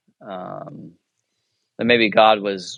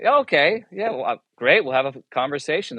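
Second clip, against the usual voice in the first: much higher, gushing mock enthusiasm; mock eager reply; 4 semitones higher than usual. Retelling how he really answered the chaplain, in mock eager enthusiasm. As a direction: play the overly eager candidate. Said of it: "but it was more like".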